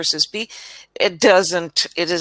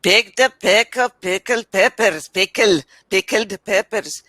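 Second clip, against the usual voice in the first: imitating Indian-accented English. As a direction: mimic the student's Indian accent on the tongue twister. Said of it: "It is just sound Indian".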